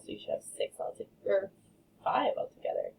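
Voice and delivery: quick whispered aside; whispering. Real, not acted. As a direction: whisper it fast.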